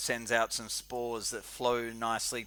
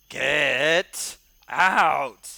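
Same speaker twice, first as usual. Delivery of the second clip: very loud, roaring troll yell, "get" drawn out; 4 semitones higher, 11 dB louder than usual. Voicing a troll rushing out of a cavern: troll yelling. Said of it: "this troll that yells at him".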